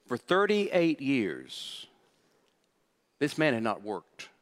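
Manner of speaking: very slow, whispered. Real, not acted. Pastor whispering the years of suffering, slow and hushed. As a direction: let it sink in, whispering.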